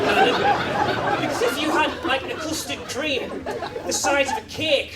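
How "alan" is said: exasperated squeak. Acted. Mock exasperation at nana.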